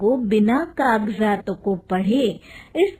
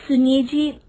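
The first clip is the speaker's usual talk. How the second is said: hesitant; 2 semitones higher than usual. Acted. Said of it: "झिझकते हुए".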